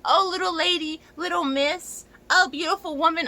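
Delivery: high, sugary mock flattery; mocking patronizing men. Mocking men who patronize them, high and sickly sweet. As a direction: imitate a condescending man sweet-talking. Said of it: "always the one to be like".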